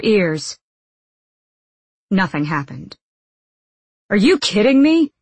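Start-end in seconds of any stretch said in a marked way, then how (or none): 4.1-5.1 high, loud incredulous question; exasperated disbelief. A narrator's reading. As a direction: blurt it out in disbelief. Jesper reacts to the failed blast.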